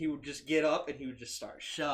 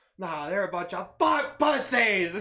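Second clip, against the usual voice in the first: very loud, high scream, climbing up; 6 semitones higher, 10 dB louder than usual. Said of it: "screaming across the street".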